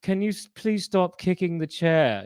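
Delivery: a touch of the snooty passenger complaining; snooty man. Retold or imitated. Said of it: "that snooty guy".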